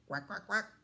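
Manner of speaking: duck quacking. Acted. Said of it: "Duck said".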